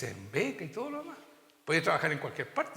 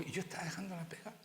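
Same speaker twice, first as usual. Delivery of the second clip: whisper; 3 semitones higher, 6 dB quieter, faster than usual. Real, not acted. Confession aside in sermon.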